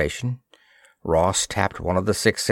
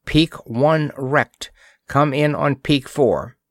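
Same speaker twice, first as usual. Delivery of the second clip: measured dispatch, higher pitched; message read-out; 5 semitones higher than usual. A narrator's reading. Urgent message to Earth Fleet, measured raised read-out.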